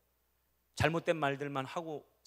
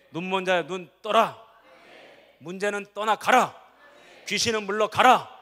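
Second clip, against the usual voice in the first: louder and higher, building to a full shout; shouted command; 6 semitones higher, 13 dB louder than usual. Acted. Preacher fires up the congregation, building to a shout. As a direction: bark the commands like a battle cry. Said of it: "아멘 좀 세게 해봐요".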